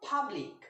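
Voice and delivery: পাবলিক with a clean British P; British pronunciation. Shown as a demonstration. Teacher modelling the right British পাবলিক. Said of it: "আসল British স্টাইলের উচ্চারণ হলো".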